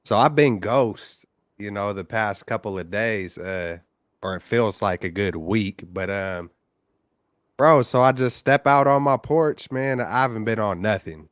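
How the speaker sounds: caller heard through a phone line; phone-line caller audio; over the phone. Real, not acted. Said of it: "another caller on the line".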